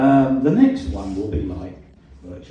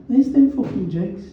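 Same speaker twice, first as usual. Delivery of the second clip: put-on Black Country accent; 10 semitones higher, 5 dB louder than usual. A narrator's reading. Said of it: "His black country accent was as vowelish as ever".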